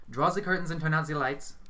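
lightly played order from the medium; bossy medium. A narrator's reading. Hazel orders Orlando to set the mood, commanding.

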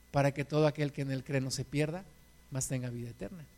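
más suave y algo rápido; versículo en voz baja. Real, not acted. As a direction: lo dice casi para sí, íntimo. (versículo en voz baja y suave)

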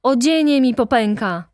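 mild shouted complaint; shouting protest. A narrator's reading. Fourth gentleman protesting to the deputy director, loud complaint. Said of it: "krzyczał czwarty".

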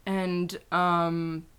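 slow, halting British boy-band impression; lightly put-on, slow earnest interview voice; a singer. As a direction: draw it out with lots of ums. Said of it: "Is this Harry?".

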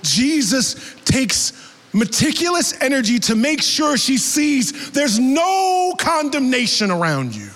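fervent sermon delivery; preaching. Acted. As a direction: drive the point home to the church. Preaching application to congregation.

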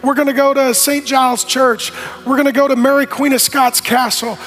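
selling the trip. Retold or imitated. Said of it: "I'm selling the trip".

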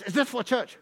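lightly imitated Chinese-accented English. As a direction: ask it in a mild mock Chinese accent. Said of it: "in this accent".

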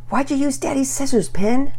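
put-on high, accusing kid voice; young boy blaming his sister. Sibling accusation.

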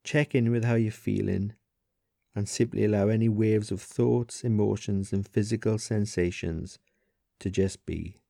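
guided meditation. Acted. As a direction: ease the listener into stillness, leaving long pauses. Leads a body scan.

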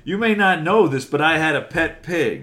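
evil cartoon German accent. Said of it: "evil cartoon German".

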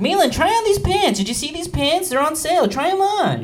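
put-on high, loud Jewish mother accent; Jewish mom accent. Mom at PacSun urging son to try pants, Jewish accent. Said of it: "I do a Jewish accent".

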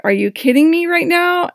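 high-pitched outraged disbelief. Retold or imitated. Retelling the stranger's insult, high outraged disbelief. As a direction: let the outrage spike. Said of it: "that just set me off".

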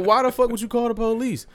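high-pitched amused disbelief; incredulous storytelling comeback; retold incredulity. Repeats incredulous reply while laughing.

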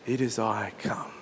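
a calm, loving call; gentle loving voice. Acted. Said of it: "that same gentle and loving voice".

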